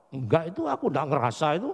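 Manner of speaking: rattled off brush-off; quick dismissive reply. Retold or imitated. Girlfriend dismisses the lover's declaration, rapid and curt. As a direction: toss off the denial fast.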